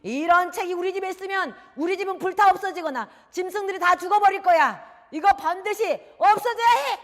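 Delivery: very loud, high-pitched fury; raging father. Acted. Father back from the sorcerer condemning the book, raging. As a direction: yell as if storming in enraged. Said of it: "씩씩거리면서 아주 화난 모습으로".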